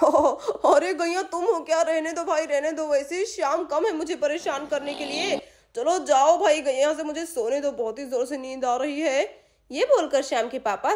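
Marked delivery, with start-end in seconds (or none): 0.0-9.2 sleepy grumbling father. Acted. Shyam's papa half asleep.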